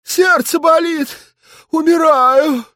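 faked heart attack cry; hammed-up clutching-the-chest cry; having a heart attack. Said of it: "Он притворно схватился за грудь". (притворный сердечный приступ)

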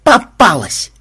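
high, loud triumphant cry; gleeful gotcha shout; delighted yell. A narrator's reading. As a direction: crow over a catch. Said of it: "в полном восторге завопил Ксенобайт".

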